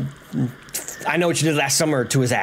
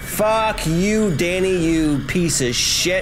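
slow, drawn-out cursing; gloating taunt; 3 semitones higher, much slower than usual. Real, not acted. Gamer to the beaten villain Danny, gloating taunt. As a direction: stretch each word out to gloat.

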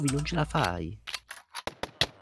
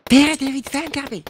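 calling out; 13 semitones higher, 3 dB louder than usual. Real, not acted. Calls teammate for help.

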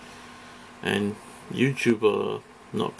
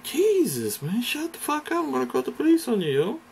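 higher, fast put-on voice telling someone off; retold snap at a stranger, fast and higher; mock angry outburst. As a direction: bark it out fast, hammed-up and high. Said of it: "I'm like".

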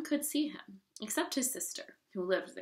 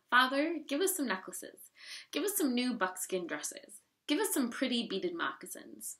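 higher-pitched, insistent requests; wheedling, entitled pleading; demanding daughters; 4 semitones higher than usual. Acted. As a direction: list your demands to an indulgent father. Spoiled sisters demanding gifts from father.

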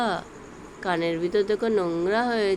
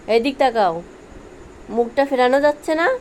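yelling across the room; 3 semitones higher, 4 dB louder than usual. Real, not acted. Calling the pet from afar.

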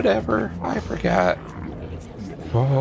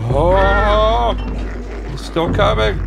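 being chased; 2 semitones higher, slower than usual. Real, not acted. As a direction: shout while fleeing. Chased again by creature.

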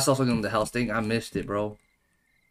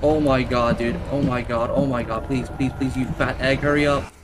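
urgent pleading. Real, not acted. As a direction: plead for it to hurry mid-chase. Pleading while chased in game.

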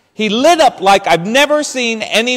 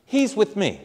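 higher pitched, hurried Italian pleading of no, no, scusi; Italian protest; 5 semitones higher, 4 dB quieter, faster than usual. Retold or imitated. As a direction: insist while fading softer. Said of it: "And I said".

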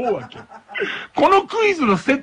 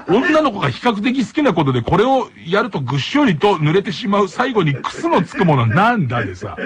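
mock reading; 2 semitones lower than usual. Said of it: "もうちょっと笑っちゃってさ".

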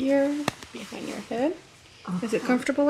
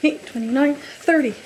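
counting out the final beats loud; 3 semitones higher, 8 dB louder than usual. Acted. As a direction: call the last numbers loud. Finishing compression cycle count.

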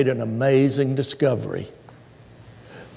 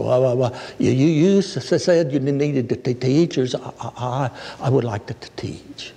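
stuttering woman; 2 semitones lower than usual. Retold or imitated. Church member volunteering to teach, stuttering. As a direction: stammer through each word, halting. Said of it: "but boy, did she stutter".

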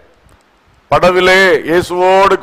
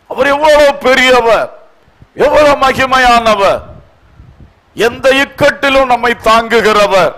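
emphatic, rhetorical sermon delivery; forceful preaching; 3 semitones higher than usual. Real, not acted. Asking believers how they can still weep, forceful preaching. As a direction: press each question on the congregation.

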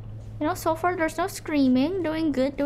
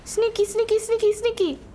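gloating singsong; 6 semitones higher, 4 dB quieter than usual. Pretend. Singsong gloating while sneaking.

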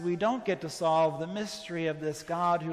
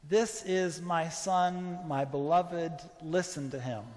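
voice from the cloud. Retold or imitated. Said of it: "that voice that comes out of the cloud".

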